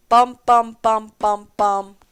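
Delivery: even, level "bum" on each beat; vocalised drum beats. Shown as a demonstration. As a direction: voice the drum hits like a steady pulse. Sings out the drum rhythm.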